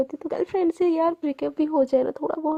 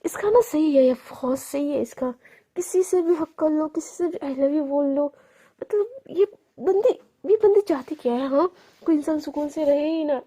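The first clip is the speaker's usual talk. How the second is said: jealous grumble. Retold or imitated. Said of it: "फिर से गुस्सा आता है".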